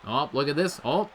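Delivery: ordinary talk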